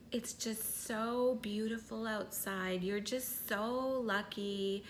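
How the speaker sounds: mock nurturing ego voice, gentle and soft; overly compassionate inner voice. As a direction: coo it like a doting mother, slowly. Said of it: "That was overly compassionate".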